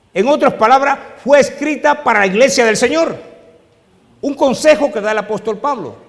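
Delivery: alto, fuerte y enfático, como en el púlpito; predicación a plena fuerza. Acted. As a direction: martilla cada frase a la congregación. (predicación fervorosa y potente)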